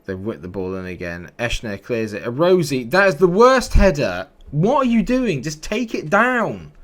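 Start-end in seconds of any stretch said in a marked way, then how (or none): 2.2-6.7 shouting high and loud in disbelief at a bad header; furious shout. Real, not acted. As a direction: yell at your player, then drag the last words out slowly. Yelling at own defender's header.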